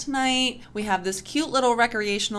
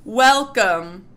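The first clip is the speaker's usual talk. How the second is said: much higher and louder, stretched slowly; big host welcome; 6 semitones higher, 14 dB louder, much slower than usual. Pretend. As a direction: bellow it like the show's opening. Opening the show like a host.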